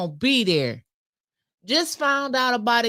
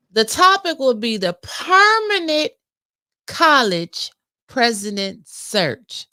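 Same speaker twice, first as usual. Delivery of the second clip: emphatic announcement read, slowing down; reading a post aloud; 2 semitones higher, 5 dB louder, slower than usual. Real, not acted. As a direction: read out the topic weightily, stretching the last words. Reads out a posted announcement.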